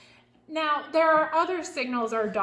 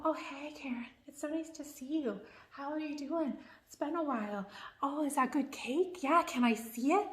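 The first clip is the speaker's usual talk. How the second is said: mock husband voice; 7 dB quieter than usual. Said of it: "my husband would come up to me and go".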